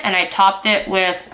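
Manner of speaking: talking through a mouthful; words round a bite of food; mouth full. Real, not acted. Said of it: "speaking with my mouth full".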